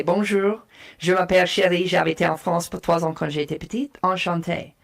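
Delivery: greeting in French; speaking French. Shown as a demonstration. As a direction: switch into a French self-introduction. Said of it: "I'm gonna speak French to this person".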